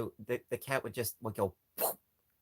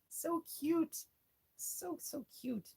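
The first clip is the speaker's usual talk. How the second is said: cutesy high voice; slower than usual. Real, not acted. Cooing over toys.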